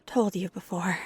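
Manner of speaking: halting, flustered compliment with long pauses; flustered flirting. Acted. Skater complimenting first-timer after the kiss, flustered.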